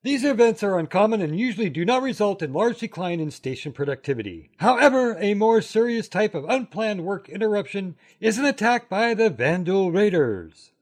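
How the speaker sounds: lightly voiced old-timey announcer. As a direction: read it like an old newsreel. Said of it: "in your old-timey voice".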